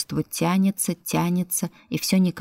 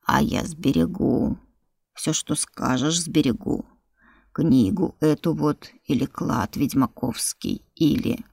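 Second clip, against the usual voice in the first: creature voice; 2 semitones lower than usual. Acted. Creature offers, low slow.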